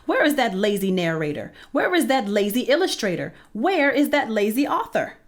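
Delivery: exasperated rant. Acted. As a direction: scold everyone one by one. Hen ranting about lazy helpers.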